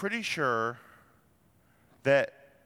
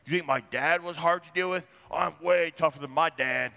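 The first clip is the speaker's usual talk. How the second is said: cocky trash talk; 2 semitones higher than usual. Retold or imitated. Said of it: "that's the point of it".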